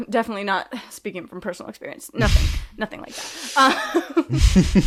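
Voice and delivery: sarcastic. Real, not acted. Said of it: "voice dripping in sarcasm".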